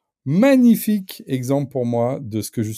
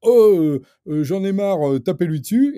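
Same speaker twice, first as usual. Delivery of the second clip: higher, louder mock outburst; raised-voice pretend rabble-rouser; mock incitement; 7 semitones higher, 3 dB louder than usual. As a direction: act out someone fed up and egging others on. Acts out a heckler inciting violence.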